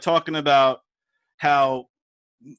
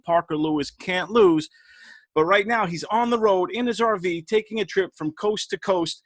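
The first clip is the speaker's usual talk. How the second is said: announcer intro. Acted. Introducing a show guest.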